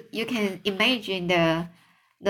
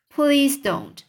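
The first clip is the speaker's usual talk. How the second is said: higher, mildly pained plea; a touch of distress, pitched up; pleading cry; 6 semitones higher, 4 dB louder than usual. A narrator's reading. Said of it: "cried B-, poor B-, P-, B F G".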